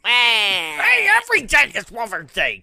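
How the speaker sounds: Gilbert Gottfried. Acted. Repeating the troll's Woman's Day line, loud high squawk. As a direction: holler it in a high put-on voice. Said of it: "Why was that Gilbert Gottfried there?".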